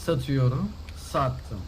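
closing the sale with a call; going, going, gone; auctioneer. Acted. Going once, sold.

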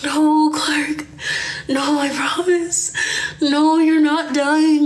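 mock a dopey, out-of-it brother reassuring you; dumb brother. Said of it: "he looked so damn dumb".

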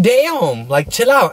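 mock indignant. To the guard asking if he's tough, a high indignant retort. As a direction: play it high and offended. Guard threatens him, he reacts.

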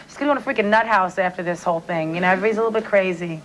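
put-on a light Staten Island accent, fast toward the end. A singer doing her film character's Staten Island accent. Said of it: "if I go into that accent".

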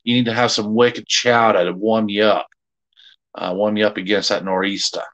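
playful put-on Boston accent; hammed-up Boston talk with dropped Rs. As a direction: imitate a Bostonian for fun. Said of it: "how to say nor'easter in a Boston accent".

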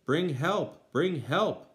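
loud, high call for help; shouted. A narrator's reading. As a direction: Sextus yells for help in terror, loud.

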